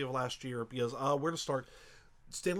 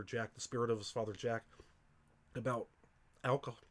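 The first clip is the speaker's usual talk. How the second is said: choked up; 2 semitones lower, 4 dB quieter, faster than usual. Real, not acted. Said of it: "I'm getting choked up".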